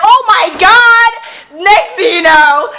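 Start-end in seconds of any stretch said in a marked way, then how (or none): 0.0-1.1 much higher, slow and louder gasp; mock gasp. Wedding guests when the thunder hits, slow shocked gasp. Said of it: "Everybody's like".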